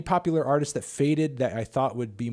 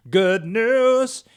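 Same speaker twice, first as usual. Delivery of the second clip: much higher and louder burst of joy; excited; 11 semitones higher, 9 dB louder than usual. Real, not acted. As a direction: cheer it out.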